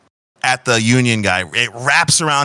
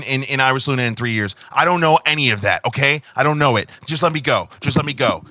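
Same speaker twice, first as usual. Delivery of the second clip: fast, higher begging babble; pleading panic; 4 semitones higher, faster than usual. Acted. Union guy begging the tabaxi to spare him, fast and panicked. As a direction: beg for your life, words tumbling out.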